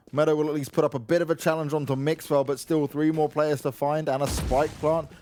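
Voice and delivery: caster rising with the action; live play-by-play. Acted. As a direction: call the clutch as it happens. Play-by-play casting.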